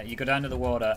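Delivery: lightly imitated Louisiana accent; deep Southern accent. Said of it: "quite the deep accent".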